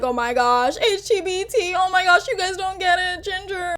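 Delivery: high, whiny imitation of a teen; whining teen girl. Mimicking Dodie whining to Ginger, high whiny voice. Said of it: "she was whining like".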